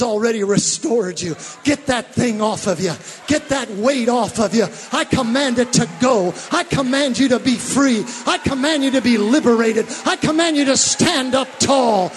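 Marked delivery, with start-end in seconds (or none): 3.3-12.1 louder and louder, each I command hit; preacher commanding freedom at full voice. Acted. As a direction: order the weight off them, building.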